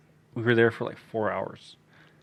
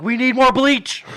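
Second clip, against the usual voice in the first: high, slow, frantic; frantic plea; 12 semitones higher, 8 dB louder, slower than usual. Retold or imitated. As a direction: beg for bleach in a panic. Panicked plea to dad.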